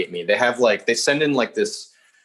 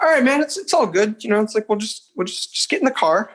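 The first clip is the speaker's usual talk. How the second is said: much higher, easygoing mock cop voice; chill cop; 10 semitones higher than usual. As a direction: imitate a laid-back officer soothing a suspect. Cop calming a nervous suspect.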